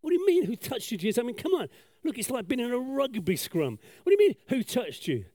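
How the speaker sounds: high-pitched, exasperated disbelief; baffled follower, voice shooting up; incredulous disciple. Retold or imitated. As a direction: protest as if the question is absurd. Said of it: "The disciple said".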